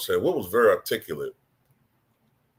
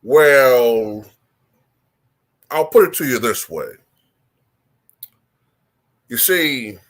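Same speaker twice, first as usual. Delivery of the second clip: slow, articulate, deliberate; Wilt Chamberlain voice; 4 dB louder, slower than usual. Shown as a demonstration. Answering a goat question as Wilt, slow and deliberate. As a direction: pronounce each word slowly, like a dignified old legend. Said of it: "he would go like".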